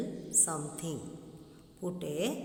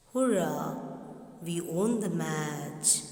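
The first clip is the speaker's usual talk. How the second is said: mock cheer. Shown as a demonstration. Teacher showing an exclamation, a small cheer. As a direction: cheer the win. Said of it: "show surprise or excitement".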